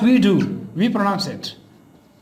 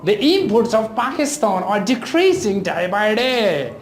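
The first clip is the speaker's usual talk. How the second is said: "imports" stressed on IM; first-syllable stress. Shown as a demonstration. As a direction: example sentence with noun "imports" as IM-ports. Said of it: "give stress to the first syllable".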